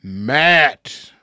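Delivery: very slow, stretched announcement; drawn-out announcer. Pretend. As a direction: drag the name out like an arena announcer. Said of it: "I could even drag that out a little bit longer".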